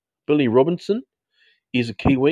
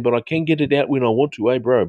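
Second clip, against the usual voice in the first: New Zealand accent. Shown as a demonstration. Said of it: "I don't talk very well in a New Zealand accent".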